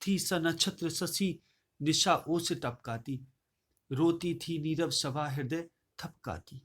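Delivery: slow, hushed verse reading; soft poem recitation. Acted. Teacher reciting the silent weeping court, slow and hushed. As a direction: let the night scene settle slowly.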